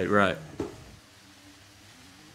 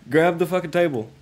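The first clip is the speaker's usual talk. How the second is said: loud, high laughing yell; laughing shout; 7 semitones higher, 5 dB louder than usual. Real, not acted. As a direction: shout it while cracking up. Table falling, urgent laughing shout.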